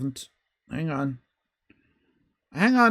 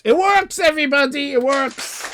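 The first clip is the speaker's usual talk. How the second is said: louder and higher, thrilled; real delight as it works; triumphant; 5 semitones higher, 5 dB louder than usual. Real, not acted. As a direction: announce the win to everyone. Celebrating the link working.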